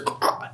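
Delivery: faint, airless choking noise; small strangled "ah"; imitated choking. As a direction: imitate choking, barely any air getting out. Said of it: "he's choking".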